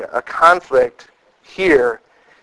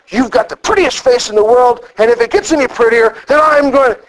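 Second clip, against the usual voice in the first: harsh tone, sweet words; 5 semitones higher than usual. Shown as a demonstration. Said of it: "how I was saying it was wrong".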